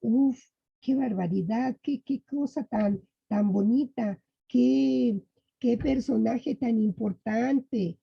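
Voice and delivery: a light demo of amazed exclamations; exclaiming. Shown as a demonstration. Teacher showing students how exclamations sound, mildly amazed. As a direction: show the class how it sounds to marvel at something. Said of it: "nos estamos así como que".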